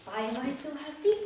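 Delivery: put-on playfully patronise her like kids' TV; humorous patronising. Shown as a demonstration. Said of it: "like you're talking on a children's T V show".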